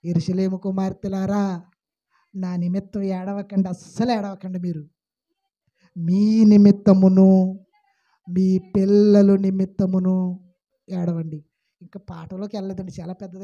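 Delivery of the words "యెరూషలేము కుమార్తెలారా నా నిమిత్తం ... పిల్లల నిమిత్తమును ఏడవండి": solemn voice of Jesus. Acted. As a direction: speak as Jesus, calm and weighty. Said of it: "యేసుప్రభు వారు అంటున్నారు".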